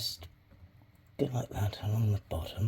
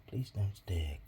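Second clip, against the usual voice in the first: whisper; 3 semitones lower, 7 dB quieter, slower than usual. Real, not acted. Begging the clay again.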